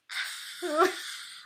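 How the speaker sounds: voiceless mock gasp; silent scream. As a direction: scream without letting the voice out. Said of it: "Silently at two in the morning".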